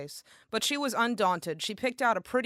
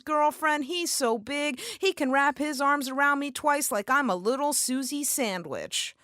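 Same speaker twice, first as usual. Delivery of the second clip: lovestruck; 5 semitones higher than usual. Retold or imitated. Susie gushing about boyfriend.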